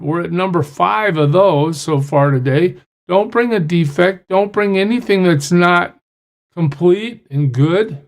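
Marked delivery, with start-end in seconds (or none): none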